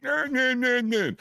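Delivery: high, sing-song nah nah; teasing high nah; mock dismissive nah. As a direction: brush it off in a mocking lilt. Officers dismissing, laughing.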